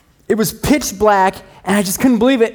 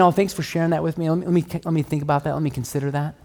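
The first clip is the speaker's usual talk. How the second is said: softer, gentle mock reply; gracious reply; 6 dB quieter, faster than usual. Husband answering his wife's concerns, softly and gently. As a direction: say it meekly, softly like a patient husband. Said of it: "instead of saying".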